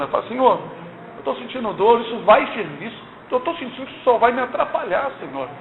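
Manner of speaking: soft, humble plea with no shouting; quiet respectful prayer; gentle prayer. Retold or imitated. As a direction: ask the Lord meekly, as she says she does. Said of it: "Eu não falo com arrogância, nem gritando".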